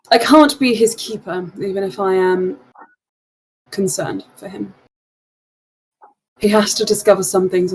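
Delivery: lightly voiced Loran, earnest and measured; hint of a worried mentor voice; Loran in character. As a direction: speak as a concerned old friend, steady.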